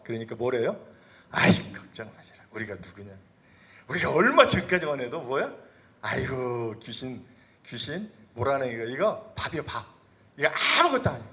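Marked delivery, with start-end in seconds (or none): 1.3-11.3 boastful disciples. Acted.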